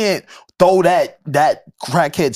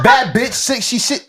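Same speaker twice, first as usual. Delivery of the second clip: crackhead voice; 7 semitones higher than usual. Shown as a demonstration. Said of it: "I'm trying to read in crackhead".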